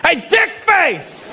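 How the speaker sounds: high, drawn-out holler; acted insulting yell. Italian dude calling the comedian, insulting shout.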